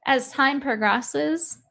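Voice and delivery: mock him with rhetorical questions; incredulous. Real, not acted. Incredulous mocking reaction.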